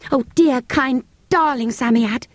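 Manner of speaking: put-on high, lightly breathless girl's plea; breathless pleading. A narrator's reading. Girl begging the creature, high and breathless. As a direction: coax it, drawing out the endearments. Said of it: "she said breathlessly".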